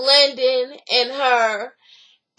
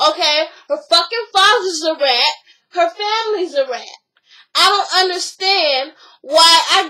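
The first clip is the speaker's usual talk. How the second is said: heated mock tirade with punched-up bursts; retold angry rant. Retelling a woman defying her friends over Karen's family, angry. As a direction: imitate someone ranting and refusing to back down.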